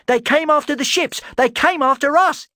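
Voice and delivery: very high, loud angry shout; furious yell. Acted. Talon yelling at Erasmus, furious. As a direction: hurl the accusation.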